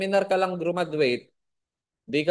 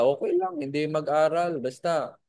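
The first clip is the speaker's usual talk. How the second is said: mock careless excuse. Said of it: "sinasabi nila".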